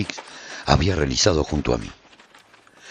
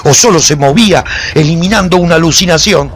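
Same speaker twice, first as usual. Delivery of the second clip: higher and louder, driving the chaos of the fight; intense battle narration; 10 semitones higher, 8 dB louder than usual. A narrator's reading. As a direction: narrate it like your mind is breaking in battle. Frantic battle climax narration.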